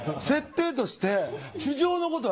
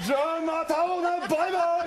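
fast, higher, upbeat goodbye; cheerful farewell; 7 semitones higher, faster than usual. Acted. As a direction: wave them off brightly. Turtle farewell.

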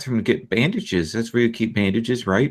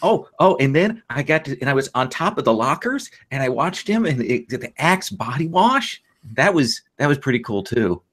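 put-on rambling excited child. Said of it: "I'm gonna tell her about my day".

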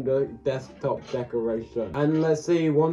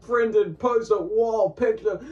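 dramatic build-up; 5 semitones higher than usual. Acted. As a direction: read the list like an epic trailer. Reads long product title dramatically.

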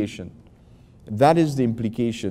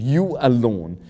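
"you alone" set apart with emphasis; emphatic you alone, falling at the end; stress on you alone. Shown as a demonstration. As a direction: give "you alone" deliberate weight. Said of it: "For emphasis".

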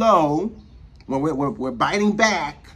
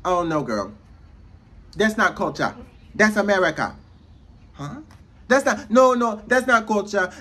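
dismissive mock objector; 2 semitones higher, 3 dB louder than usual. Acting out people denying Black culture.

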